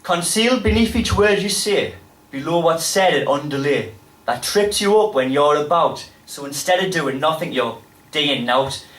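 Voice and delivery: put-on rhythmic spoken word in a Geordie accent; performed poetry. Poet defending the Geordie accent to an audience, impassioned recital.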